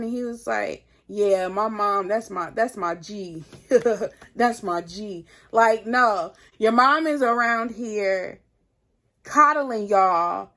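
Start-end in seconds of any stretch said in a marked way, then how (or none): 1.1-5.3 amused imitation with a short chuckle; laughing boyfriend. Boyfriend joking about his mom, retold with a laugh. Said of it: "he starts laughing".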